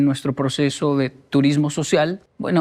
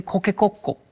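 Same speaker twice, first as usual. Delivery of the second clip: Japanese rooster crow; 3 semitones higher than usual. Retold or imitated. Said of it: "Los japoneses dicen".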